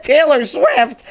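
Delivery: slow, drawn-out disbelieving question; incredulous echo. Retold or imitated. Coworker mocking her answer naming a singer, incredulous.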